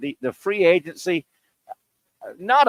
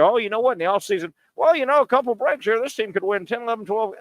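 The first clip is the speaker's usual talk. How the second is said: mocking the media; 5 semitones higher, faster than usual. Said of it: "Every one of you guys".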